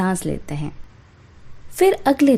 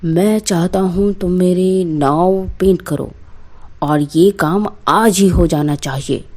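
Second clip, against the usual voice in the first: a lightly deeper, commanding landlord voice; stern zamindar; 3 semitones lower than usual. Acted. Zamindar summoning Babulal for an urgent job, lightly deeper commanding voice. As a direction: speak down to the painter like a village landlord.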